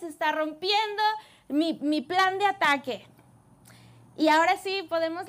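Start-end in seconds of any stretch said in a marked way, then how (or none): 0.0-3.1 slow, stretched royal fury; a furious king drawing out his demands; angry king. Acted. The king of Syria raging at his officers, slow and angry. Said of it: "el rey de Siria se enfurece y dice".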